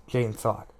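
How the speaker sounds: steady audiobook reading voice over music; story narration. A narrator's reading. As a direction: read the novel aloud, even and measured. Reads The Gunslinger aloud.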